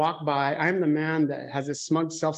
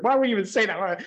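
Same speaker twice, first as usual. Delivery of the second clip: a touch of mock indignation, raised; retold anger; 5 semitones higher, faster than usual. Relative snapping back at the preacher, mock indignant. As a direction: imitate the relative's offended outburst, lightly. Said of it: "they got really mad at me".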